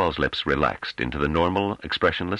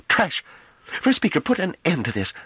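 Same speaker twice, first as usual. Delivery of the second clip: higher, louder, tightly held anger; tense controlled voice; 3 dB louder than usual. Acted. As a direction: keep the fury barely reined in. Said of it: "spoke in a tense but tightly controlled voice".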